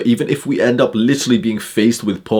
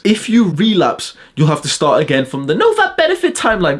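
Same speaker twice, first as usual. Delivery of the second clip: mocking YouTuber parody; 7 semitones higher than usual.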